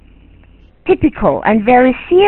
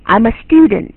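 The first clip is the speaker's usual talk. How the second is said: model sentence. Shown as a demonstration. English teacher giving students a line to imitate, model sentence. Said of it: "而不是说他说…你就说…这就不是这样".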